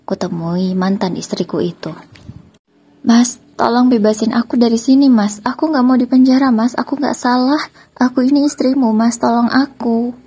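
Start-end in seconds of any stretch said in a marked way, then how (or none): 3.0-10.2 high, loud desperate begging wife; pleading ex-wife. Acted. Ex-wife begs husband at police station, high desperate pleading. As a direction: beg him to free you, voice pitched high.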